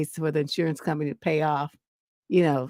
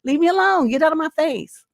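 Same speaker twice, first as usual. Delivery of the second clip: retold angry yell; 9 semitones higher, 5 dB louder than usual. Yelling at men on transit.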